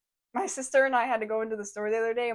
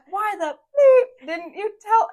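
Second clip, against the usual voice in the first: slow, loud and higher imitated rant; mock angry yell; 10 semitones higher, 11 dB louder, slower than usual. Retelling the customer's outburst at register, mock yell. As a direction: mimic him screaming at the cashier.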